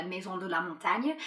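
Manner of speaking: French pronunciation of the place name; French accent. Real, not acted. Guest recommending a Chamonix office, in French accent. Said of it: "Your French accent is so good".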